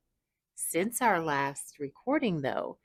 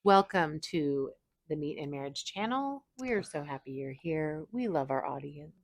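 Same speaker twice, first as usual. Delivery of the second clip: soft, calm, soothing narrator; hushed nature documentary; 2 semitones lower, 5 dB quieter than usual. Real, not acted. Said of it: "your soothing, calm narrator voice".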